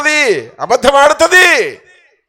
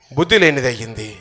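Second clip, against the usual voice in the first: soft echo; 11 semitones lower, 9 dB quieter than usual. Acted. Preacher echoing his point to the congregation, lower and softer. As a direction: lower and softer, almost to himself.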